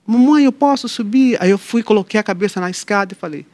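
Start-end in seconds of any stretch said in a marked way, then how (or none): 0.1-1.4 put-on child calling.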